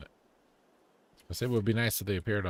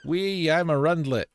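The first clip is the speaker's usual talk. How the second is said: gleeful squeal; 7 semitones higher, 5 dB louder than usual. Pretend. Playful squeal in game.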